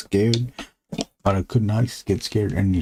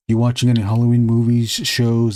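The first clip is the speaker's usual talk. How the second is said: louder, fast announcer-ish ask; louder fast question; 5 dB louder than usual. Real, not acted. Host asks guest about Halloween movies, loud and quick. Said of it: "That voice makes it sound cooler".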